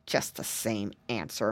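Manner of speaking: low, soft grumbling witch; muttered. A narrator's reading. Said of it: "muttered the witch".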